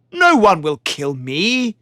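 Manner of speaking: slow, steady, gentle promise; calm her fears; reassuring. Acted. Warrior reassuring his worried love, calm. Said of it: "tried to reassure her".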